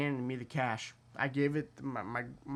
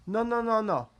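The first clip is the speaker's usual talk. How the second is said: higher, louder repeated nos; driver's insistent no; 7 semitones higher, 4 dB louder than usual. Retold or imitated. Taxi driver overruling the passengers, high insistent. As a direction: wave it away eagerly. Driver refuses again, voiced.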